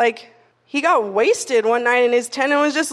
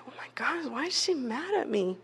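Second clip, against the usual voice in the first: whispered worried thoughts; anxious whisper; 12 dB quieter than usual. Retold or imitated. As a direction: breathe it out in a panicked whisper.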